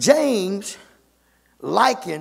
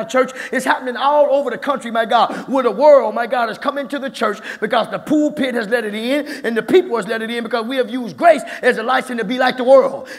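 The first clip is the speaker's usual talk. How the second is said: preacher lifting the energy, full force; preaching higher. Acted. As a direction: climb into a fiery preaching pitch. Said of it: "I'm going higher now".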